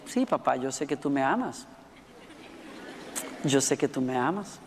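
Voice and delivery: low, gentle voice of a daughter reassuring her father; tender retold reply. Daughter answers father after silence.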